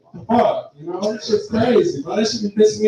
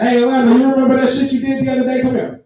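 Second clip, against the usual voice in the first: mom summoning; 5 semitones higher, 3 dB louder, faster than usual. Retold or imitated. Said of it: "She bring it".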